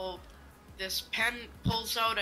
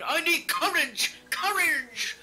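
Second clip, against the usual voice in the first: cowardly lion voice; 5 semitones higher, 7 dB louder, slower than usual. Retold or imitated. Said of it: "who the hell makes up a talking line".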